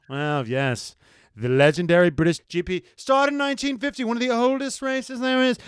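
mock self-important British fan, rising in pitch; cocky Brit. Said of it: "they're just as cocky as Americans".

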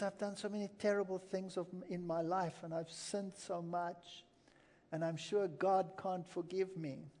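a hint of her quiet despair; softly voiced old lady. Old lady's confession retold.

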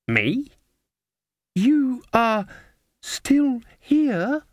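put-on high, halting questioning young girl; bewildered. A narrator's reading. Waking girl recognises Granny, bewildered and halting. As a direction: pause between words, pitched high in disbelief. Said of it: "the girl looked bewildered".

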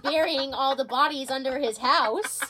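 high and drifting, dawning idea; stoner. Real, not acted. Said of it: "I'm really high right now".

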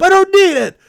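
high, loud acted snarl; yelling him off in character; mock angry yell. Stranger in car yelling at helpful narrator, mock angry.

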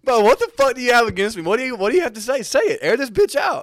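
loud, high indignant outburst; heated confrontation. Real, not acted. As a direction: demand answers, rising to a yell. Mock quarrel with cohost over name.

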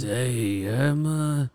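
Italian-American mobster accent put on; Scorsese Italian accent. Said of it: "such a very Martin Scorsese Italian accent".

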